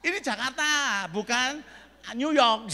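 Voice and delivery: loud exasperated correction; mock indignant shout. Preacher reminding kids they live in Jakarta, mock indignation. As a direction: belt it out in comic indignation. Retells scolding children in Jakarta.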